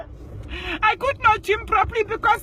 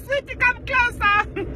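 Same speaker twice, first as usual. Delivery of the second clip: flirty come-on; 5 semitones higher than usual. Retold or imitated. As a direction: tease her to come closer. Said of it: "and I'm like".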